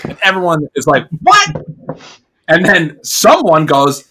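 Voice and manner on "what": high-pitched yelp of disbelief; shocked crowd reaction. Acted. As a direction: cry out as a startled onlooker. Crowd reacts to shouted alarm.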